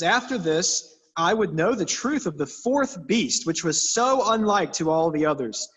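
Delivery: put-on reading the old Bible out, steady and formal; a touch of solemn King James reading; scripture reading. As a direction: read it like a lectern reading. Reads scripture passage aloud.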